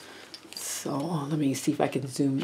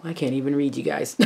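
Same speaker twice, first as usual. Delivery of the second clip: usual speaking voice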